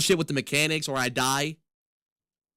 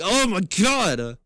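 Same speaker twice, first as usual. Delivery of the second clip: put-on raging kid voice; 3 semitones higher, 3 dB louder, much slower than usual. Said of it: "The kid's coming out of me".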